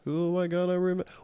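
high fast fretful voice; mock panic. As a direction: fret like a panicked patriot.

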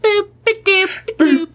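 very high, cooing boop-a-doop; Marilyn Monroe. Pretend. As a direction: coo it like a pin-up star. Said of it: "like a Marilyn Monroe".

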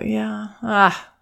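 nod along and sympathise; gently acknowledging a child's disappointment; sympathetic nodding. Shown as a demonstration. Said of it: "just keep nodding your head and go".

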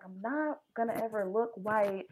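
thinking to herself. Retold or imitated. Plotting how to get a rental deal, low musing. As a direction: drop it down like private reasoning. Retold inner scheming.

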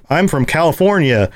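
lightly voiced California accent, slightly off; botched California accent. Host caricatures Californians for his guests, botched California accent. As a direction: try a California accent and miss. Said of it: "that's not the right accent".

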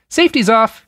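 cheery, high and loud; breezy warning, pitched high; cheerily. A narrator's reading. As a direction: toss off a grim fact brightly. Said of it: "he said cheerily".

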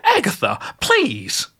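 high, wounded cry of her name; old witch cries out at her friend's joke; pained old witch plea. Acted. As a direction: plead like a scandalized granny. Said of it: "Gertrude cried".

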